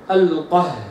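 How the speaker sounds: القهار with the doubled h held; recitation demo. Shown as a demonstration. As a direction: recite القهار, the shadda clear. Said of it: "هكذا". (تلاوة القهار بالشدة)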